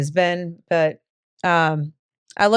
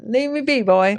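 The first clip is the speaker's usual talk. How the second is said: mock drawl; 6 semitones higher than usual. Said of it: "I like that".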